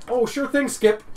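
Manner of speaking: high, loud, eager sidekick voice; little goblin. Acted. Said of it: "a little goblin goes".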